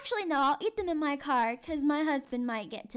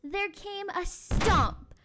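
dramatic story narration. A narrator's reading. Teacher reads the cottage break-in to children, dramatic suspense. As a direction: build to the monster's entrance.

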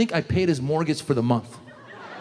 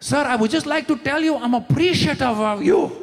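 gushing gratitude; 7 semitones higher than usual. Retold or imitated. Over-the-top thanks, laughing.

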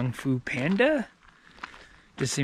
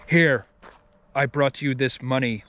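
stiff, serious dubbed-movie voice; robotic deadpan voice. Retold or imitated. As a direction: read it flat like a robot. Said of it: "It just kinda sounds like a robot".

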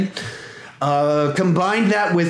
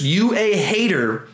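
slow sassy taunt; slow put-on taunt; slower than usual. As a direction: drag it out mockingly. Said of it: "You just".

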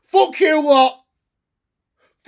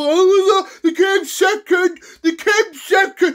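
higher, sing-song sneer; mocking other fans; 4 semitones higher, slower than usual. Fan mocking people who praise the team, sneering higher voice. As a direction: mimic them like they're fools. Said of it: "I know you got a lot of people".

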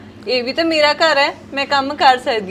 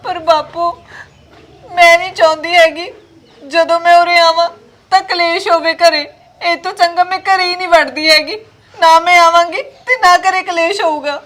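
louder, crying and pleading at once; tearful plea; 4 dB louder than usual. Acted. Daughter telling her father she won't come home, crying. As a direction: push through tears, begging.

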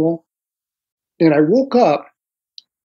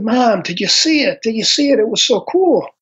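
put-on excited kid; 5 semitones higher than usual. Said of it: "I said".

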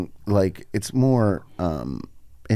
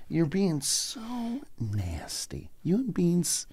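mock whine; 7 semitones higher, 10 dB quieter, much slower than usual. Whiny complaint at friends.

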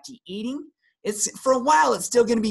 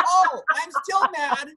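mock lingering anger; 9 semitones higher, 3 dB louder than usual. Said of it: "I'm like".

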